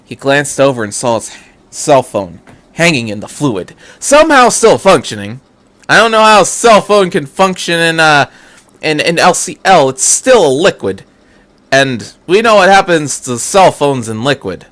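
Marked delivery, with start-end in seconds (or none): 4.0-14.7 higher louder amused disbelief; incredulous aside. Real, not acted. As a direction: break off to question the story. Reader's own aside.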